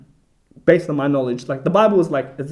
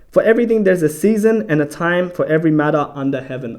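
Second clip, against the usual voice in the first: verse read out firmly; scripture reading; 2 semitones higher, 5 dB louder than usual. Acted. Bible study host opening a new verse, scripture reading voice. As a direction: open the passage with a raised, declaimed start.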